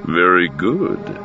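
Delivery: slow, knowing and arch. Acted. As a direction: drawl it with dry superiority. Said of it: "Control said archly".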